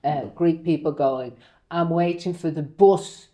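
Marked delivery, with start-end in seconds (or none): 1.7-3.3 put-on slow classroom repetition in a regional accent; imitated regional accent. Greek class copying their teacher, imitated regional accent. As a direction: copy the regional vowel in "bus", slowly. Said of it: "never realised she had an accent".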